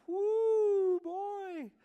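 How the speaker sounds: high, loud frustrated cry; blowing off steam at a missed exit; exasperated whoo. Retold or imitated. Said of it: "It's like I get mad".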